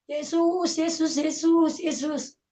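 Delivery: high, drawn-out calls to Jesus; re-enacted calling out. Beaten son suddenly calling on Jesus, high re-enacted cry. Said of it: "tiba-tiba saya nyebut begini".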